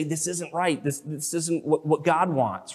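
softly voiced, gentle correction; loving confrontation. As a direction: say it softly, as a caring reproof. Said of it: "so in love, 'cause I care about you".

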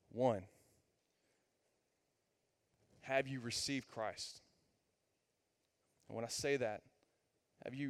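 hushed, sincere invitation; gentle altar call. Acted. Closing appeal to the room.

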